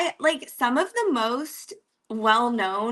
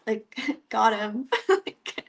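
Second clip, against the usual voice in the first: laughing; slower than usual. Real, not acted. Laughing at own prank story.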